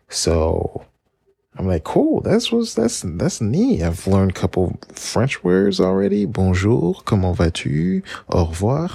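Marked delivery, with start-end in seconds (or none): 1.8-8.9 put-on high, eager little-kid chatter; pitched-up child bragging about French; excited kid voice. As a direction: show off like a proud seven-year-old. Child self showing off French.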